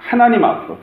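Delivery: 하나님 lifted high and stressed; emphatic repeat. Real, not acted. 설교자가 회중에게 강조하며, 하나님 앞으로를 높게 반복. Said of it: "하나님 앞으로 가야 됩니다".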